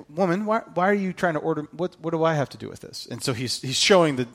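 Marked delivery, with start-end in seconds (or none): 0.1-3.1 soft mild protest. Retold or imitated. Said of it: "he's saying".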